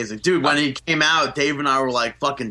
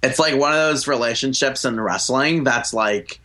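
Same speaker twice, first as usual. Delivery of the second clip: put-on Valley girl voice. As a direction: stretch the likes like a Valley girl. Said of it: "you sound like a Valley girl".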